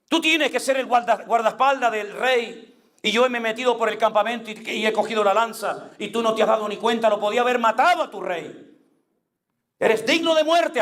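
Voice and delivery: high-pitched, declaimed rebuke; David. Acted. David rebuking the king's sleeping bodyguard from the mountain, scolding. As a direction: scold as if projecting down from a height. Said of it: "le dijo desde lo alto de la montaña".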